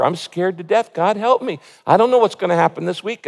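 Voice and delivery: a touch of fear, pleading to God; scared prayer, hurrying the worry about this week; mild frightened lament; fearful plea. Shown as a demonstration. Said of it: "You can lament out of fear".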